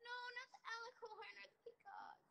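urgent whisper. Real, not acted. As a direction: hiss the warning under breath.

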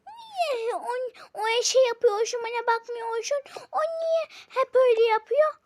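high, loud tearful whining; whiny complaint. Acted. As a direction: sob out a jealous complaint. Jealous child whining. (kıskanç çocuk ağlamaklı sızlanıyor)

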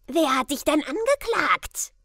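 sharp crowd heckle; shouted jab. Acted. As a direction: yell it from the back of the crowd. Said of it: "schrie eine Stimme".

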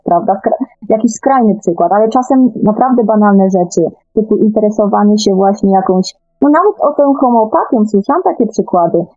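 ordinary talk, nothing marked

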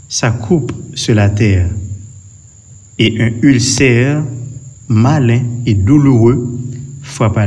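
solemn scripture reading. Acted. Preacher reading Revelation sixteen to the congregation, solemn proclamation. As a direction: read the verses out like a proclamation to the church.

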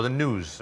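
"news" said without y, as "nooz"; yod dropping. Shown as a demonstration. Linguist showing a Welsh newsreader's habit, "news" as "nooz". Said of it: "there's that y, that y, yod dropping".

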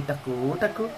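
imitating baby talk. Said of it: "टकू टकू बोली".

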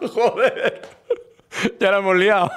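words through laughter; laughing. Real, not acted. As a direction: laugh while saying it. Laughing after the slip.

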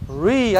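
"re" said as a long "ree"; isolated English R. Shown as a demonstration. English teacher drilling the R, "re" as long "ree". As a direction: stretch "re" out with an English R. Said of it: "e o R é".

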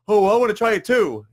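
imitating a friend who is eager to start the diet. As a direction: beg to join in, thrilled. Friend wants the diet too.

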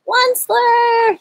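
high, slow drawn-out croak; croaking cry. A narrator's reading. Lorax calling the Onceler, a slow high croak. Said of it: "he cried with a crufulous croak".

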